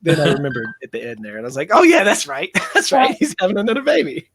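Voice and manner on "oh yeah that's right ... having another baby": high, laughing retold penny-drop; acted-out sudden remembering; amused realisation. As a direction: replay the moment it clicks, through a laugh.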